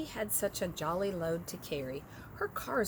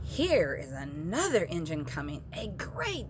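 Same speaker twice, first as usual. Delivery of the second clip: excited. Acted. Clown spots new engine.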